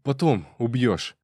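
a wheezing snarl telling a rival to back off; hoarse rasp. A narrator's reading. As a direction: rasp it out, annoyed and winded. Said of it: "прохрипел Зайко".

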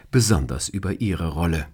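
plain reading voice

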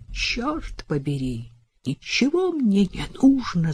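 losing control, shouting. A narrator's reading. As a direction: snap as composure breaks. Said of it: "закричал он, теряя самообладание".

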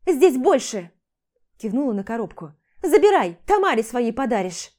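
loud, spiteful outburst; furious. Acted. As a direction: fling it at him. She throws jewelry box at him. (громкая злая вспышка)

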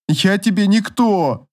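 wife crying at husband, high and slow. A narrator's reading. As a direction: wail it out through tears. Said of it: "плакала Соломея".

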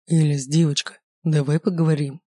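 calm her down with a gentle, alluring voice; lightly soothing, a touch seductive. Acted. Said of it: "успокаивающим голосом".

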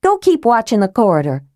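ordering. Acted. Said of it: "Tika ordered".

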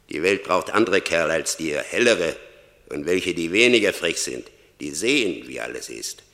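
loud, forceful reproach; berating. Acted. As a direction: hammer it home to a failed man. Death berates Franz. (laut und vorwurfsvoll)

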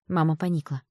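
ordinary delivery

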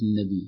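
"النبي" tossed off with a plain "bii" ending; wrong undoubled ya. Shown as a demonstration. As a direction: end "النبي" softly on a simple i. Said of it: "وليست".

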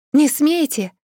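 high, loud forbidding cry; desperate shout. Acted. Heroine stopping the necromancers' attack, shouting. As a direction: shout them down to protect him. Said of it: "закричала".

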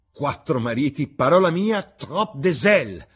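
high, loud, theatrical amazement; astonished exclamation. Acted. Hostess hearing of four husbands, astonished exclamation. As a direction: burst out, drawing out the French.

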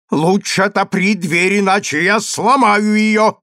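angry threat. Acted. Angry consul threatens his locked-in wife. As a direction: threaten to break the door. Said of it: "сказал рассерженный консул".

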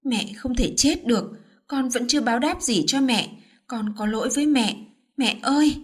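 mildly tearful son pleading; a touch of crying, rising on the last call; understated grief, breaking on mẹ ơi; choked up. Acted. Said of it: "Anh mếu máo".

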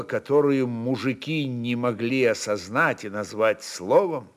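ordinary delivery, nothing marked

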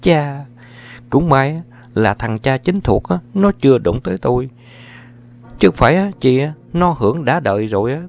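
cao giọng, mỉa mai dồn dập; trút giận lên chồng không ngừng; chưa chịu buông tha. A narrator's reading. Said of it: "vẫn chưa chịu buông tha". (vợ mắng chồng, giọng cao và mỉa)

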